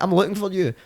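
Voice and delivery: high mock-stern policeman. Policeman telling Billy he's wanted, mock stern. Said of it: "he was like".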